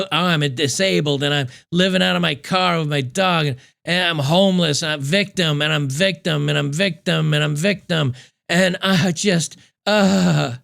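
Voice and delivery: lightly whiny mock of her victim act, repeating victim; mocking victim whine. Commentator mocking her to viewers, a mild whiny impression. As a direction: play up her self-pity in a mild sing-song. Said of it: "she throw".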